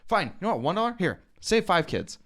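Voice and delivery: imitating a harassed passerby caving; worn-down giving in. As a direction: give in to a pest. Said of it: "harasses him and harasses him".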